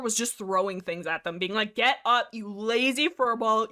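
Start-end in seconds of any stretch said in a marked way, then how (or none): 1.7-3.7 mock bossy scolding. Snailstar throwing things to wake her clanmates, bossy. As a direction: play a grumpy leader rousting sleepers.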